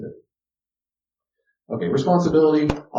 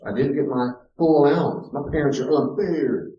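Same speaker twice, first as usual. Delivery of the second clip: put-on complaining child; 3 semitones higher, 3 dB louder than usual. Voicing complaining child example.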